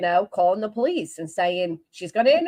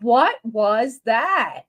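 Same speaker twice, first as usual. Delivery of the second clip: slow disbelief; much slower than usual. Real, not acted. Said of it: "That was a hell of an impression".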